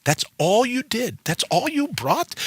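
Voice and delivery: mock-scoffing dare; defiant taunt. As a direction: taunt fate like a boxer who barely felt the hit. Squaring shoulders against fate.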